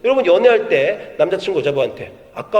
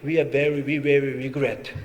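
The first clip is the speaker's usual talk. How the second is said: very slow, lower recital of a rejection; slow reading; 5 semitones lower, much slower than usual. Retold or imitated. Preacher recalling his own rejection emails, slow and heavy. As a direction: drag out the regretful email line. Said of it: "이메일이 올 땐".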